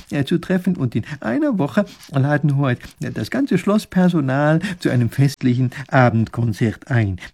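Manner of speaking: eager, halting scholar with fillers; excitable professor, deferential. Acted. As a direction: propose politely, stumbling between phrases. Professor makes his hesitant proposal.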